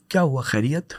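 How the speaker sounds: soft caring question to an angry wife; gentle, not angry. Retold or imitated. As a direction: ask the wife calmly with no anger. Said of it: "tone بھی change ہے".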